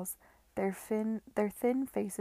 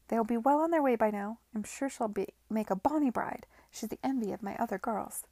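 brassy madam; 2 semitones higher, 4 dB louder than usual. Acted. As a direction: sell him the new girls with a broad grin. Madam voiced by narrator.

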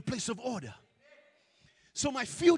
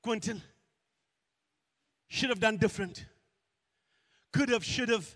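sing-song taunting; 2 semitones lower than usual. Retold or imitated. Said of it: "Do you hear that voice".

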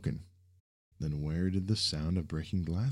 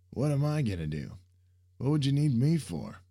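high, loud disbelief; can't believe he's needed; surprised; 9 semitones higher, 5 dB louder than usual. Acted. Surprised Sam asks.

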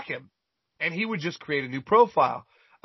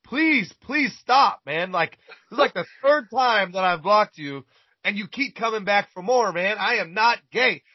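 fed-up pleading, voice pitched up in disbelief; exasperated outburst; 4 semitones higher than usual. Retold or imitated. Retold exasperation at persistent creep.

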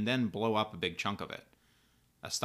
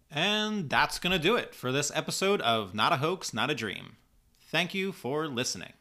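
higher, upbeat outro read; podcast sign-off; 5 semitones higher, 4 dB louder than usual. Acted. Host thanking listeners at episode's end, upbeat sign-off. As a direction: wrap up the show in a lifted host voice.

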